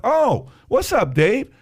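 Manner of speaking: very high-pitched, exaggerated friendly voice; mock chummy chatter. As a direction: play it up as carefree, squeaky small talk. Acting out easygoing, friendly chat.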